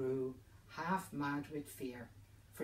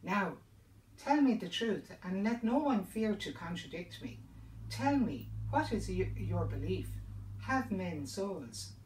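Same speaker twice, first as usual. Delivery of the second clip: loud, higher commanding call to the room; 4 semitones higher, 6 dB louder than usual. Acted. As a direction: demand the truth from the whole hall. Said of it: "called out to them".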